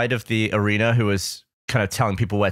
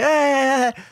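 announcer calling out; 11 semitones higher than usual. Retold or imitated. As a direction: call out like an arena host. Horses introduced to crowd.

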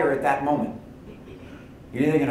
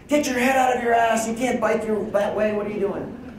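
angry raised voice; 10 semitones higher than usual. Retold or imitated. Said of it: "you didn't raise your voice".

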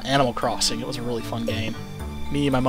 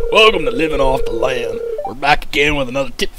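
folksy TV host; 5 dB louder than usual. Acted. Reading TV host tip show.

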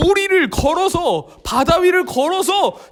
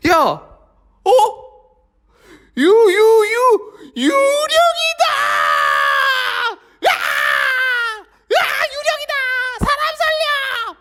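high, screaming terror; terrified; 10 semitones higher, slower than usual. Acted. Disciples seeing a figure on the sea, high shrieking terror. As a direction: shriek that it's a ghost.

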